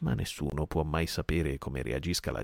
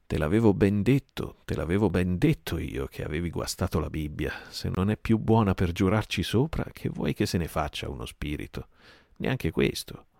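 mocking taunt. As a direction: taunt him for his fear. Silver mocks Dick.

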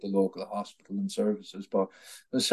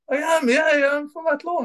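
imitating a flat Athlone accent, pitched higher. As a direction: answer plainly like an Athlone man. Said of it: "in the flattest Athlone accent".

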